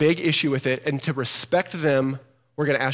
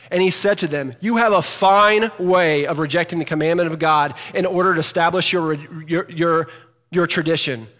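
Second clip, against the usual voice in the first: louder sarcastic scripture reading; emphatic reading; 3 semitones higher, 5 dB louder than usual. Shown as a demonstration. Pastor rereading verse nine with sarcastic emphasis. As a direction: read it right, with the exclamation. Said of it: "you need to read it right".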